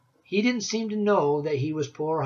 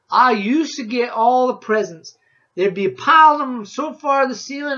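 put-on old woodsman Rancid; 7 semitones higher, 9 dB louder than usual. A narrator's reading. Woodsman tells the boy about Christmas trees, loud backwoods voice. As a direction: boom it out like a grizzled mountain man.

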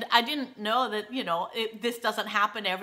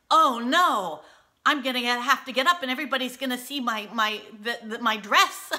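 horrified panic; 3 semitones higher, 5 dB louder than usual. Retold or imitated. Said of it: "I'm seriously horrified".

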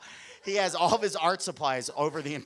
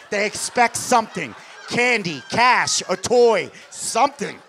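emphatic list; 4 semitones higher, 8 dB louder than usual. Acted. Listing what kids demand.

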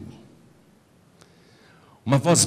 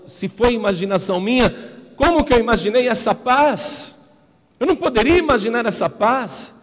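agitated disbelief; 12 semitones higher, 6 dB louder than usual. Retold or imitated. Confused, reliving the voice.

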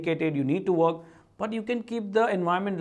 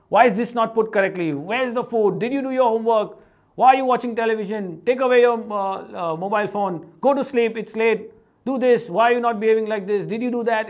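louder, rapid-fire scolding questions; mock nagging yell; 2 semitones higher, 4 dB louder than usual. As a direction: imitate a nagging parent firing off orders. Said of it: "It's all yelling, yelling, serious, serious".

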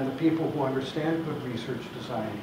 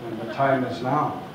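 laughing through ninja voice; 2 semitones higher, 6 dB louder than usual. Retold or imitated. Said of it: "with my best ninja voice".

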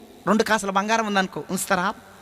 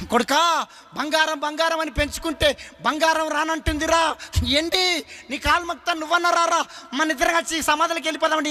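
pleading father; 5 semitones higher than usual. Acted. Dying father pleads with son.

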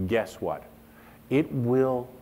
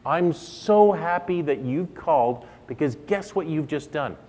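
sincere phone greeting; 4 semitones higher than usual. Shown as a demonstration. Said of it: "I answer the phone like I mean it".

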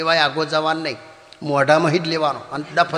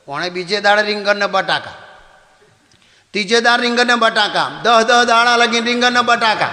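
building exasperation; 4 semitones higher than usual. Acted. Same dish every day.

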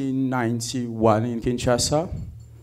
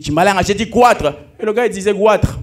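mocking the Luba accent, louder; 5 semitones higher, 5 dB louder than usual. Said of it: "that's the accent that we have".

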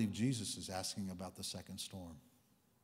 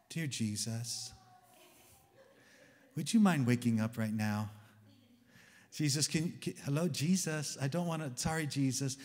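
mock timid politeness; 2 semitones higher, 3 dB louder than usual. Mock timid polite waking of Jesus.

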